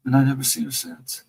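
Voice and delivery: ordinary talk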